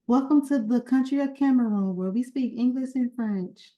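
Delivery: a hint of a little greeter reciting; child greeter's welcome. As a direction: recite it like a proud kindergarten greeter. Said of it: "and they say".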